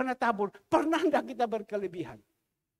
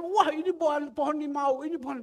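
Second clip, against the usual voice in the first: proud boasting; 5 semitones higher than usual. Retold or imitated. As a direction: brag about the lime tree. Wife boasts about tree again. (istri gembala memamerkan pohon limau dengan bangga)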